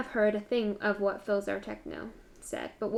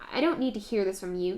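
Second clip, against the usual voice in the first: spat; 5 dB louder than usual. Acted. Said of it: "Technoblade spat".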